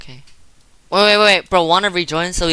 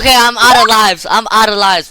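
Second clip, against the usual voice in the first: loud frustration; 4 semitones higher, 5 dB louder than usual. Real, not acted. Just lost last life.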